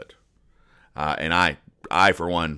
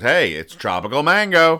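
Janice piping up; 7 semitones higher, 6 dB louder than usual. Retold or imitated. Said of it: "And she goes".

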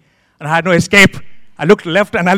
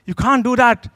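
higher-pitched mock outrage; retold indignation; 4 semitones higher than usual. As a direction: act out scandalised disapproval. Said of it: "I was thinking in my mind".

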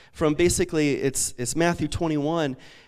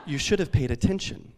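mock reproach; 3 semitones lower, 5 dB quieter than usual. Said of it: "she looked at me and said".

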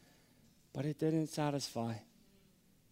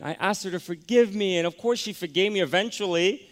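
emotional; 7 semitones higher, 8 dB louder than usual. Real, not acted. Preacher emotional retelling forgiveness.

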